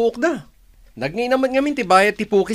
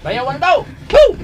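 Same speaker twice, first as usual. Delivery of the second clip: calling out; 6 semitones higher, 7 dB louder, much slower than usual. Acted. Greeting brother-in-law from afar.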